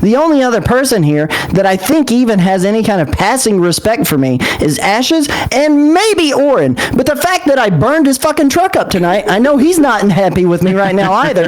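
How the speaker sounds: defiant acted outburst before storming out; dramatic fit. Character tells the group off before leaving, dramatic fit. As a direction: argue back heatedly, pitch climbing. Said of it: "his most dramatic fit yet".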